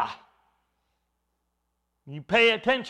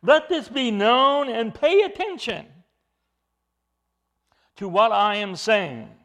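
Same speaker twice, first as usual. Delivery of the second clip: emphatic proclamation; 3 semitones higher, 5 dB louder than usual. Acted. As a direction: command the crowd to listen. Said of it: "Very emphatic in the Greek".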